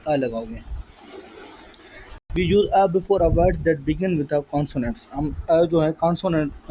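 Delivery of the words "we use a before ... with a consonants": slow, word by word rule reading; slow dictation. Shown as a demonstration. Teacher dictating the rule to students, slowly. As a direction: read it out slowly so students can copy.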